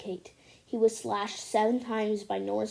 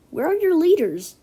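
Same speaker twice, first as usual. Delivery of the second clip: stern demand; 6 semitones higher, 7 dB louder than usual. Acted. Mexican troops demand leaders.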